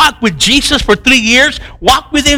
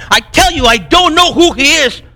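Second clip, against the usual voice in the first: higher-pitched, mildly heated protest; insistent denial; 5 semitones higher than usual. Acted. Peter denying Jesus a third time, insistent. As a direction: deny it emphatically, pitched up.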